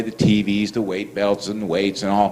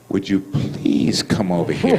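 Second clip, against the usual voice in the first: slow, lower-pitched polite request; civil, very nice; 5 semitones lower, slower than usual. Retold or imitated. Guard asking the inmate to come over, civil and nice. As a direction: imitate strained courtesy, drawing it out slowly. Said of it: "He was being civil and very nice".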